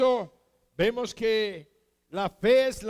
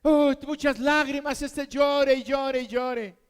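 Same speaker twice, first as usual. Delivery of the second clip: higher, louder lament, hammed-up moaning to God; mock wailing sufferer; 4 semitones higher, 4 dB louder than usual. Preacher mimicking a sufferer's complaint to God, hammed-up wailing. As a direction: play a sufferer crying out about tears and pain. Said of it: "y decir".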